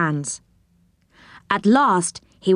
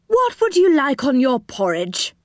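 lightly raised cheerful host voice; Moonface voice; 6 semitones higher than usual. Acted. Moonface asking Joe about porridge, lightly voiced. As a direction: offer breakfast brightly.

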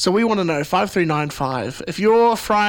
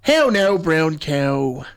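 Irish accent; much slower than usual. Shown as a demonstration. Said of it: "if you say in Irish".

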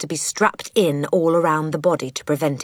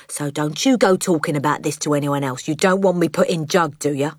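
lightly voiced shady dad; crooked cockney father. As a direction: warn the kid to keep it secret.

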